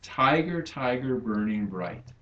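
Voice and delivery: "Tiger, tiger, burning bright" with stress on TI, TI, BURN and BRIGHT; trochaic meter. Shown as a demonstration. Teacher scanning Blake's line, TI-ger, TI-ger, BURN-ing BRIGHT, trochaic stress. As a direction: scan "Tiger, tiger, burning bright" as falling beats, strong syllable first. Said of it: "their meter".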